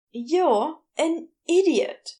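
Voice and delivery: slow, matter-of-fact insult; blunt verdict. Acted. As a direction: tell him plainly before walking off. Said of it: "Gabriel informed him".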